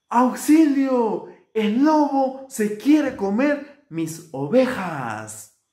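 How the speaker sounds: loud, high, drawn-out cry for help; shepherd boy shouting. A narrator's reading. Shepherd boy tricking his friends, high drawn-out shout. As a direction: call out slowly across a field. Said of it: "les gritaba".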